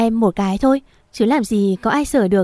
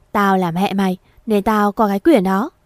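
shrill mother. Acted. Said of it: "Mẹ Hải giọng chua ngoa".

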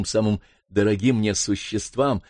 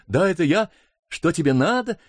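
put-on higher, light girl's voice; a carefree girl calling back; lightly voiced sister; 7 semitones higher than usual. Sister answers from the water, higher and light.

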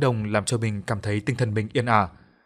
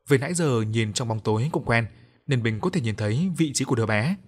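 ordinary delivery, nothing marked

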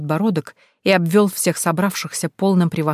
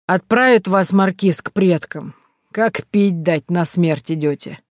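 put-on slow drunken foreboding; drawn-out drunk warning; drunk old man; slower than usual. (медленно, по-пьяному)

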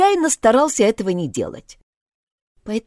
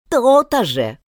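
grumbling; 3 semitones higher, slower than usual. Acted. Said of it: "проворчал гадёныш".

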